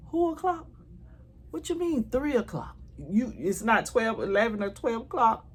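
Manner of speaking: high, squeaky re-enacted disbelief; incredulous disbelief. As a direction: replay the shock of hearing three o'clock. Told check-in is at three.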